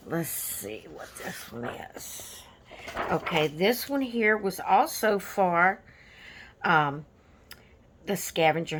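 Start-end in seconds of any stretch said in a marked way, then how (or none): 0.1-2.4 zacht gefluisterd, voor zichzelf; whispered aside. Real, not acted. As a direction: fluister het terloops, langzaam.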